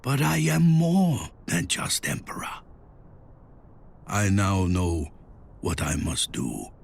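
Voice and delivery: hushed, halting reflection with long pauses; inner thought. A narrator's reading. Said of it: "he thought".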